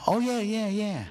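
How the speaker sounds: high, quick cover-up agreement; feigned knowing. Retold or imitated. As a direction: bluff that you knew it all along. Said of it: "but I didn't tell her that".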